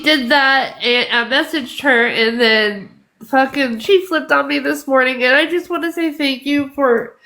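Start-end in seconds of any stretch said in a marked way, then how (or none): 5.2-7.2 tearful thanks, voice wavering; real tears, pushing through the words; crying while thanking. Real, not acted. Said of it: "I'm sorry I'm crying".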